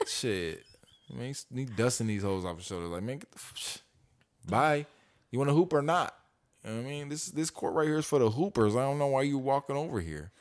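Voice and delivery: lightly voiced kid with mad swag; swaggering Robert impression. Dad speaking as Robert to brush off the girls, with swagger. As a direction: play Robert with cool, dismissive swag. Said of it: "that's how he's talking. I'm, I'm, I'm Robert right now".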